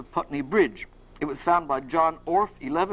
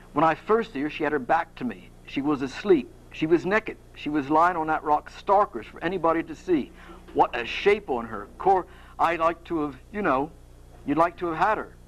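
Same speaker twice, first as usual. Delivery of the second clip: light Cockney storytelling; Cockney bloke reminiscing, mildly acted; Perseus. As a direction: have a gentle go at Cockney. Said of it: "like to do a Cockney accent".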